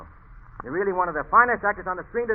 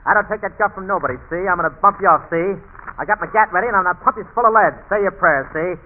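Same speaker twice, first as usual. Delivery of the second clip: hammed-up Cagney tough guy, louder, with "see?" tags; mock tough gangster; 3 dB louder than usual. Radio comic threatening Cagney in gangster voice, hammed-up. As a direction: threaten him like a movie gangster, loud. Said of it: "If I sound like that in pictures".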